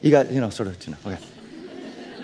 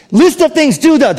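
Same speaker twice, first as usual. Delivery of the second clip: mock list of rules; 10 semitones higher, 6 dB louder than usual. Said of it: "what the Bible says to you isn't".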